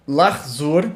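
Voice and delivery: lahzor said fast, the het silent, two syllables; clipped lahzor. Shown as a demonstration. Teacher demonstrating the quick Hebrew form lahzor. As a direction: say lahzor quickly, swallowing the vowel. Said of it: "tô deixando o het mudo".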